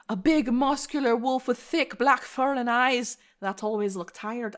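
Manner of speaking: put-on slipping into an Irish or Scottish accent; a hint of Irish or Scottish accent. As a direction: read with an accidental Irish-Scottish lilt. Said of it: "I'm suddenly Irish or Scottish".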